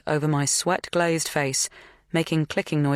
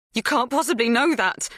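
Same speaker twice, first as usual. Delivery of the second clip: panicked squeak; 9 semitones higher than usual. A narrator's reading. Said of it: "My voice is a panicked squeak".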